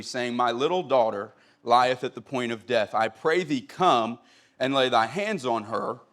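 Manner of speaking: steady Bible reading to the congregation; scripture reading. Acted. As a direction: read the King James text with reverence. Reads scripture aloud in KJV.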